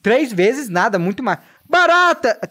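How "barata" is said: loud, high yelp of alarm; startled cry. Real, not acted. Player spots a cockroach, loud high startled yelp. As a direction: shriek at the sudden bug.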